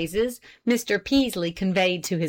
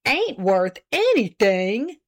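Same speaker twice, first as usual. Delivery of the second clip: 1 hurt exclamation; 2 semitones higher, 3 dB louder, slower than usual. A narrator's reading. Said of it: "in hurt tones".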